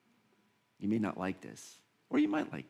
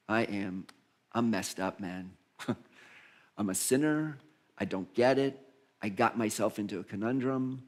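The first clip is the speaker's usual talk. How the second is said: understated, weary plea, a little lower; lightly voiced penitent; 4 semitones lower, 4 dB quieter than usual. Tax collector confessing his mess to God, lightly voiced penitent. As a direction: lightly act a confessing sinner, sighing at the mess.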